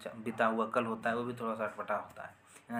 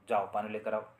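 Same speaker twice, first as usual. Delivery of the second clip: mild loud command. Shown as a demonstration. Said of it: "जोर से बोलेंगे".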